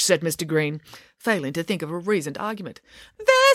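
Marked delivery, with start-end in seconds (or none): 3.2-3.5 high, loud exclamation; sudden acted outburst; triumphant pounce. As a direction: pounce on the slip. Triumphant catch in argument.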